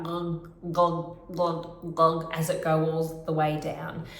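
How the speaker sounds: gulping glug glug glug like water down a drain; drain glug demo. Shown as a demonstration. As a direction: make the drain sound, throaty. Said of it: "It sounds like this".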